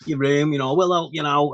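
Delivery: a hint of an overly nice welcoming squaddie; mock welcome. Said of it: "you're probably gonna get bedded in, like, nice".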